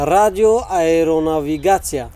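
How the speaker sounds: slow, fully sounded رادیو ایروناویگاتسیا; careful pronunciation. Shown as a demonstration. Host gives guest the next hard word, slowly and carefully. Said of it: "کلمهٔ دیگه".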